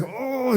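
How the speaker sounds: mock a frustrated crying groan; angry-cry groan. Retelling upset friend's outburst, imitated angry cry. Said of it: "you know that angry cry?".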